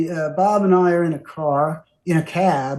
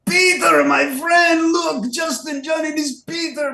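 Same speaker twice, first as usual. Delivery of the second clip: imitating a Swiss accent, high and shouted with joy; a musician with a Swiss accent; 12 semitones higher than usual. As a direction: call out like a big friendly Swiss bear greeting an old pal. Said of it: "jumps up and says".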